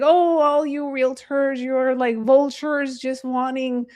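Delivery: put-on irritated old man. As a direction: imitate an annoyed elderly man, drawn out. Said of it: "He was very upset".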